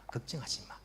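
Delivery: the Lord comforting the sick believer; comforting Jesus voice. Acted. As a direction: start hushed, then promise firmly. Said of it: "주님께서 위로하십니다".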